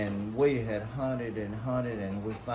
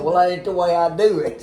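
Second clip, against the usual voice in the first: defiant retort; 6 semitones higher, 12 dB louder than usual. Retold or imitated. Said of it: "Slade said".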